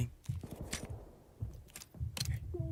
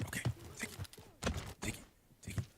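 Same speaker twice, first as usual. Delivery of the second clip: whispering; 18 dB quieter, much faster than usual. Real, not acted. Whispered urging while hiding.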